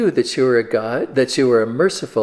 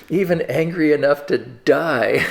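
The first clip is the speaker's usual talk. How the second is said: ticked-off retort; 4 semitones higher than usual. Acted. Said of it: "Jonah is really ticked off".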